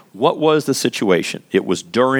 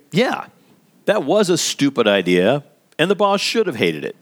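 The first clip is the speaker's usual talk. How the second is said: mock sarcastic coworker; 3 semitones higher than usual. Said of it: "he will say".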